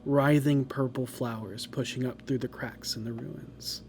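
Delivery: eerie, measured scene narration; story narration. Acted. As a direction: set a haunting scene. Game master's scene setting.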